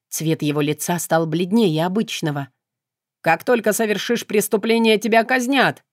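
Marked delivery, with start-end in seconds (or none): 3.2-5.8 shouting. Acted. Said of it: "выкрикнул Мефис".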